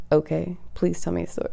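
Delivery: softly re-enacted, reluctant okay; subdued agreement. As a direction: drop the volume and give in. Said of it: "this is how I sounded when I said".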